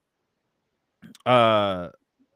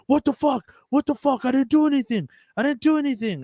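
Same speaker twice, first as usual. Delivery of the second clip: high-pitched panicked screech, imitating the victim; retold screaming; 13 semitones higher than usual. Punched inmate screaming he did nothing, panicked high screech. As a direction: shriek it in mock panic. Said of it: "like, screaming".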